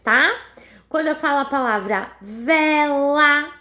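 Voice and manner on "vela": "vela" stretched into two even beats, vé-lá; sílabas destacadas. Shown as a demonstration. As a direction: say "vela" with both syllables held. Teacher splits word into syllables. (vela com as sílabas marcadas)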